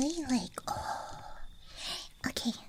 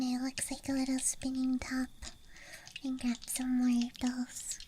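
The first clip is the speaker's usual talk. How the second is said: ASMR whisper. Real, not acted. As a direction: whisper close to the mic. ASMR dice show-and-tell.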